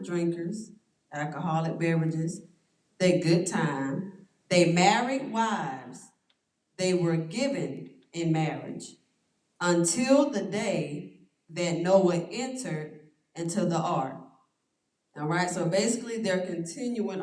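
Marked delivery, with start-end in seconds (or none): 3.0-14.2 very slow, weighty recital; slow scripture reading. Acted. Pastor reading the Noah verse to the group, slow and grave. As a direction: draw every phrase out slowly.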